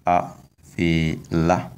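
a, fela slowly, rising on la; a, fela, slow careful tone demo; high final tone. Shown as a demonstration. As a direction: model a, fela with a lifted final vowel. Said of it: "tone is on the last vowel".

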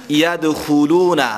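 "یدخلون" slow, with a small bounce on the "د"; light qalqala on dal. Shown as a demonstration. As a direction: let the "د" shake a little, slowly. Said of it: "قلقله صغرا". ("یدخلون" با قلقلهٔ صغرا روی دال)

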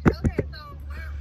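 high and loud, caught off guard; a mother jolted by the news; shocked outburst. Real, not acted. Mom hearing her son is jailed, shocked and loud.

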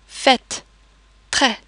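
fête, très with open eh vowel. Shown as a demonstration. Teacher giving examples, fête, très with open E. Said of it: "The other two E's are more like".

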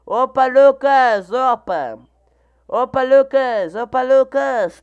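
greeting a viewer in chat, excited. Real, not acted. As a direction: call out a happy hi.

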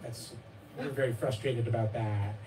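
slow, gentle gentle-parenting voice; lightly acted calm validation of a frustrated child; soothing mirroring. Shown as a demonstration. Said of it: "You say".

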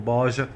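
"Bağışa" said as baaja, g swallowed; swallowed-letter dialect. Shown as a demonstration. Driver puzzling over whose dialect it is, "Bağışa" as baaja. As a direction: run the vowels together in "Bağışa": baaja. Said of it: "Bazı harfleri yutarlar ya".

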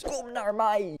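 lightly voiced luring surface. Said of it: "wat roept". (lokkende stem, licht gespeeld)

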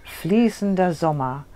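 measured recital in short phrases with pauses; poem recitation. Shown as a demonstration. Poet reads her summer poem for the interviewer, recited in spaced phrases. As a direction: let each image fall and settle. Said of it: "wenn du mir mal was vorträgst".

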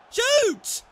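high, loud command; exasperated shout. Real, not acted. Gamer ordering his striker to shoot, exasperated shout. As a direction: yell it at the screen.

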